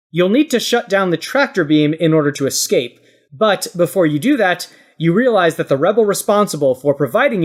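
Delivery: game master's measured scenario read; scene setting. Acted. Host sets players a rescue mission, scene-setting narration.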